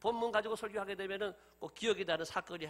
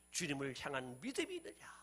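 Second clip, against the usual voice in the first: ordinary delivery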